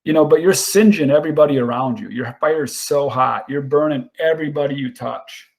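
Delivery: light imitation of a mentor's slow Southern drawl; a hint of a slow Southern drawl, mentor's advice over scotch. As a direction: lean back and drawl it like an old Southern mentor. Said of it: "he said it real slow in a Southern drawl".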